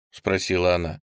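usual speaking voice

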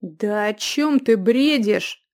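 loud, slow angry retort. A narrator's reading. Youth angry at the innkeeper's ravings. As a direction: snap back at her. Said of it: "рассердился Юлиан".

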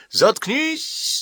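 humiliated suitor yells at his friend, shouting. Acted. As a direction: snap it out as a cry. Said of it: "запоздало крикнул он".

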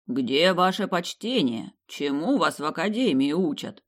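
slow, booming and hollow, like inside a metal drum; booming voice from a barrel. Acted. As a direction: boom it out like a stone god in a barrel. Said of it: "Раздался гулкий, как из бочки, голос".

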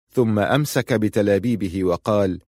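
normal talking voice

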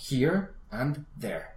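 "Here and there" slow, each word set apart; teacher spelling out each word of "Here and there" slowly; slow and separated. Shown as a demonstration. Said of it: "diciendo claramente cada palabra".

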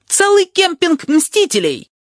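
slow, very high triumphant cry; Tabaki yelling. A narrator's reading. Tabaki yells from the window about avengers, very high. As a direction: drag out the shout gleefully. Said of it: "орёт Табаки".

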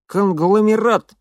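loud, high, slow gurgle; gurgling. A narrator's reading. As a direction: gurgle it as if choking on broken teeth. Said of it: "булькал, будто давясь".

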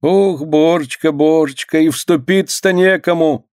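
put-on keen over the boy; grieving wail. A narrator's reading. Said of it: "горестные причитания женщин".

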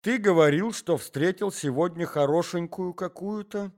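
wife cutting in suspiciously; jealous wife. Acted. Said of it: "спросила жена".

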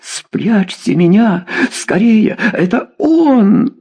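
panicked pleading squeal; terrified shriek. A narrator's reading. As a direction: beg to be hidden, voice rising to a squeal. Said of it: "завизжала Журавлёва".

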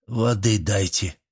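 slow, hoarse and worn out; hoarse request. A narrator's reading. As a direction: croak for water. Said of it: "хрипло попросил Иль". (Иль хрипло просит воды)

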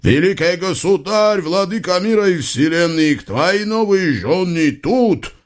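high calling-out voice across the river; shouting to the sultan. A narrator's reading. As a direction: call out to the far bank. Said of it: "закричал во всё горло". (мягко выкрикнутый зов через реку)

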